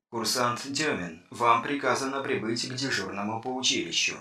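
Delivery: even machine voice, unhurried; old speech synthesizer. A narrator's reading. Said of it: "синтезированный голос охранного компьютера". (синтезированный голос компьютера)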